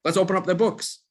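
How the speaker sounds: God's voice. Retold or imitated. Hashem announces an audit of the gossiped-about person, high and eager. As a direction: pitch it up like a gleeful inspector opening the books. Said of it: "Hashem says".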